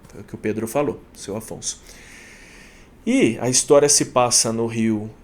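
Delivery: normal talking voice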